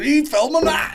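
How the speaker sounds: squeaky high delighted shout; high excited quote. Retold or imitated. Mate squealing at being filmed, high and excited. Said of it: "And he goes".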